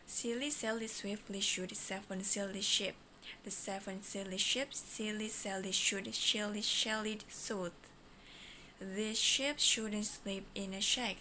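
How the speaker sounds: quick twister run; fast mode. Shown as a demonstration. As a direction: rattle it off quickly. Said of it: "The first mode".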